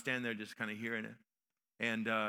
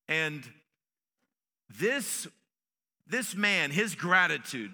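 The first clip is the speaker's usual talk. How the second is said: raised, weighty sermon delivery; emphatic preaching; 5 semitones higher, 6 dB louder than usual. Real, not acted. Preacher expounding Jesus' words to the leper, emphatic preaching. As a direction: preach the verse with force and spaced pauses.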